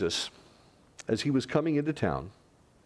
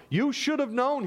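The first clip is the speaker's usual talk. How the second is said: lamenting Jesus; 3 dB louder than usual. Retold or imitated. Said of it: "he says".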